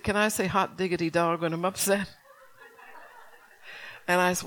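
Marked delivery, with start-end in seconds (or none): 0.0-2.1 lightly voiced small boy, higher pitched; imitating little Isaiah. Four-year-old asking mother if he may say it, lightly imitated child. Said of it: "And then he said".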